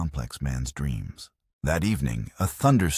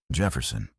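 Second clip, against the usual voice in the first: muttering in pain; 4 semitones lower than usual. A narrator's reading. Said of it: "he muttered, his voice raw with pain".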